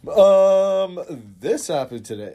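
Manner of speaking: high, fast nervous rambling; imitating an awkward coworker's bit; mock coworker doing a bit.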